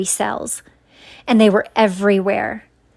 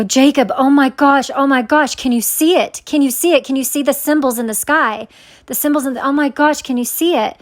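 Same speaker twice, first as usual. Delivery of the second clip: higher-pitched, urgent pleading; retold panic; 4 semitones higher than usual. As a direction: act out mild panic, voice lifted. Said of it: "upset and panicked".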